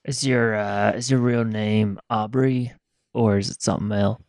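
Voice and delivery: put-on slow, drawn-out Southern accent. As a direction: ask it like a slow Southern drifter. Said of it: "I don't know why I'm so southern right now".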